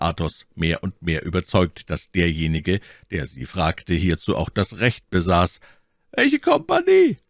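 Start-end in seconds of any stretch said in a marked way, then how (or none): 6.1-7.2 slow, high, loud demand; commanding question. A narrator's reading. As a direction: interrogate like a superior. The officer questions them.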